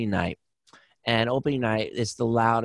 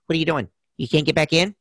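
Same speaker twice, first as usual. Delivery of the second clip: lightly voiced impersonation, pitched up; a hint of a higher, incredulous questioner; Joe Pesci; 4 semitones higher, faster than usual. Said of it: "and Pesci goes".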